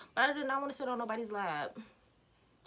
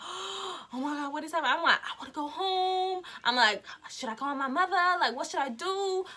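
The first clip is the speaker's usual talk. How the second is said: mock panic; 4 semitones higher than usual. Acts her panic hiding in bushes.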